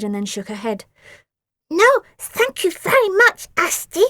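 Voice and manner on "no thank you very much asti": high, loud, slow creature voice; polite refusal in an odd beastly voice; growled. A narrator's reading. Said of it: "she growled".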